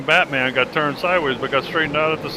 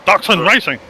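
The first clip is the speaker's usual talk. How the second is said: put-on German accent; 5 semitones higher, 4 dB louder than usual. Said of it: "Is that your best German accent".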